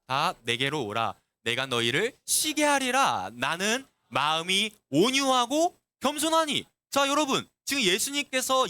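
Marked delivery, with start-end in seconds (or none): 0.1-6.6 scripture reading. Shown as a demonstration. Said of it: "한번 읽어볼게요".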